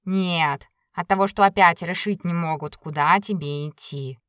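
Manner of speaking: put-on a pleased, chatty old cat; talking cat. The cat Bayun speaks.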